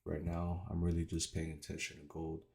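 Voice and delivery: slight lisp from a retainer; wearing a retainer. Real, not acted. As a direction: talk with a retainer in. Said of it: "it's 'cause I have my retainers in".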